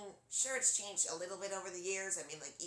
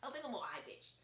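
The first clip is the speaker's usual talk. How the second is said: slightly raised Liverpool cartoon voice; Wakko; 4 semitones higher than usual. Shown as a demonstration. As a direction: nudge the pitch up into a cartoon voice. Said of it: "Wakko's is a little more high-pitched".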